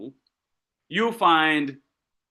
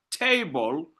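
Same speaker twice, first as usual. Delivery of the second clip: "table" weighted on its first syllable; stress on first syllable. Shown as a demonstration. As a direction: lean on the "ta" in "table". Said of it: "where the first syllable is stressed".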